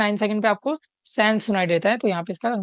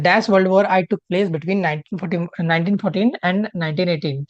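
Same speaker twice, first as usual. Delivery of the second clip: slow question read-out; 2 semitones lower, much slower than usual. Shown as a demonstration. Teacher slowly reading the exam question to the class. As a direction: read each word slowly and clearly. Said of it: "reading the question slowly aloud".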